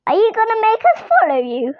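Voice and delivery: nervous shaky voice, rushed. Acted. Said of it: "in a shaky voice".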